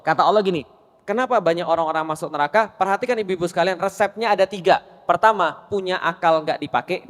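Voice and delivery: ordinary delivery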